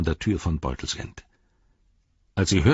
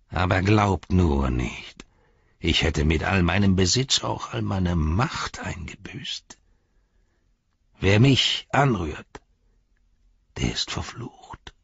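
slow, hissed threat; menacing whisper; slower than usual. Acted. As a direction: whisper the curse slowly. Saruman threatens with a curse.

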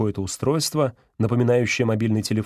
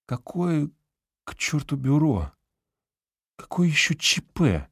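голос профессора выше, с похмельным возмущением; недоумевающее ворчание с похмелья; похмельный профессор; 5 semitones higher than usual. A narrator's reading. (похмельный профессор возмущённо переспрашивает незнакомца)

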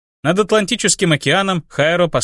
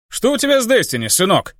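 шутливый вопрос отца; 8 semitones higher than usual. Acted. Отец подтрунивает над сыном.

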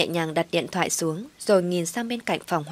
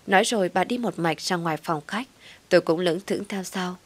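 ordinary delivery

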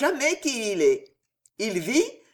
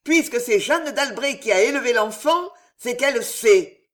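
a hint of hoarse, hissing rage, louder; hoarse hissing fury; 3 semitones higher, 4 dB louder than usual. The queen vowing Jeanne d'Albret's death in hoarse fury. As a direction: swear death on her enemy. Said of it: "rauques et sifflantes".

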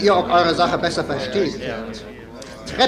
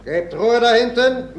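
a sudden raised order, slowed down; raised scolding call; 5 semitones higher than usual. Acted. Clerk silencing weavers at the back, raised scolding call. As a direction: call out sharply to silence the room.

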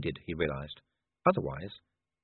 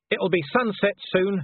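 higher, loud hopeful shout; 9 semitones higher, 4 dB louder than usual. Acted. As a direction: call up at the wolf. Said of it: "he shouted".

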